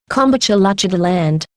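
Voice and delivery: "Kombucha Luchada Land" as a mangled koala place name; garbled pronunciation. Shown as a demonstration. Siri's last try at the name, garbled into "Kombucha Luchada Land". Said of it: "spell it a few different ways".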